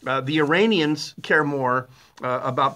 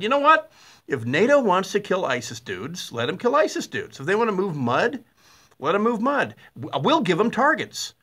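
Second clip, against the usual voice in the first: mock Putin; 4 semitones higher than usual. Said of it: "And Putin said".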